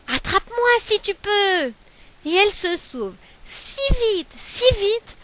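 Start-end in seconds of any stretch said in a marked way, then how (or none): 0.1-1.7 cheeky taunt. Acted. Galette taunts bear.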